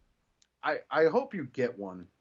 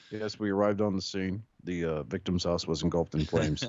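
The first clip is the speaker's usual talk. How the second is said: a touch lower, dry police report; deputy's report; 5 semitones lower than usual. Acted. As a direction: give a deadpan officer-on-scene statement. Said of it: "Marion County Sheriff Deputy Streetwise".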